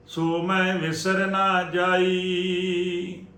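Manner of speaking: slow, measured sacred chant on a level tone; Gurbani recitation. Shown as a demonstration. Teacher reciting Gurbani for the congregation to learn, measured chanting. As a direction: recite scripture phrase by phrase, drawing out endings.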